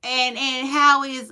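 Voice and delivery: loud, high, drawn-out mock hello; slow singsong imitation of small talk; mock friendly greeting. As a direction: imitate a nosy acquaintance, stretching it out slowly. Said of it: "ran into people and be like".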